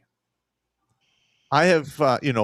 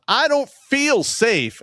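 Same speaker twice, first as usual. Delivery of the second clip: mocking fearful plea; 9 semitones higher, much slower than usual. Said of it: "a judge that says".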